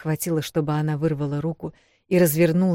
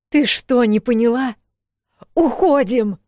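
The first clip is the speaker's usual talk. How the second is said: much higher, louder order; commanding shout; 8 semitones higher, 7 dB louder than usual. Acted. Эл ordering Вэл to flee, shouted command. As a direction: bark the command at her sister. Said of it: "скомандовала Эл".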